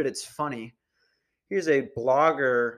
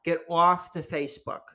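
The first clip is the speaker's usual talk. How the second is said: nagging preachy lady, pitched up; annoying lady voice; 5 semitones higher than usual. Retold or imitated. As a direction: mimic a preachy documentary lady. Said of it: "she sounds like, uh, super annoying".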